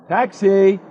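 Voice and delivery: calling out. Acted. Hailing a taxi.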